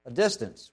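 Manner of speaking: "A distance" said low and soft, dwelling on "distance"; quiet low repeat of "distance"; stress on distance. Shown as a demonstration. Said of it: "And Peter followed at a distance".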